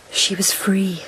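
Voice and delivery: hushed longing whisper. Acted. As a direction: breathe the words. Intimate talk of freedom.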